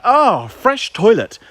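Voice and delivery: high, slow delighted dog voice; dog's voice. Pretend. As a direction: savour it as the dog would. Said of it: "he was like".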